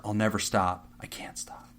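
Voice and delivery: mock-ominous whisper fading out; hushed, eerie, half-joking; creepy whisper. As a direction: breathe it like a creepy stalker. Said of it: "type something cryptic".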